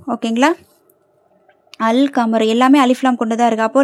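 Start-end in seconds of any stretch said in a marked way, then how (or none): 1.8-2.5 "அல் கமரு" with the L clearly sounded; teacher's model "அல் கமரு", full L; lam pronounced. Shown as a demonstration. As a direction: keep the L audible in "அல் கமரு". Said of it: "லாம் உச்சரிக்கப்படுது".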